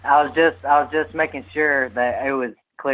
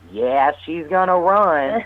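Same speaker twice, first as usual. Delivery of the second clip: lightly imitated spirit, slow and higher-pitched; spirit's bellow voice; 4 semitones higher, slower than usual. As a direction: draw out the ghost's reply, lifting the pitch. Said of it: "that deep bellow voice".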